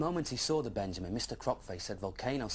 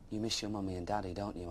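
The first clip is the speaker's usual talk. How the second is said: gentle comforting; 2 semitones lower than usual. Acted. Dragon comforts sad friend.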